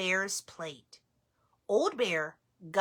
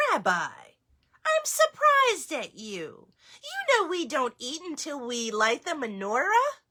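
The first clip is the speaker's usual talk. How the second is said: lightly voiced grandma, a bit higher; grandmother voice; 5 semitones higher, 3 dB louder than usual. Baba Brena teasing the bear, mild surprise. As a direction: play Baba Brena, gently scolding.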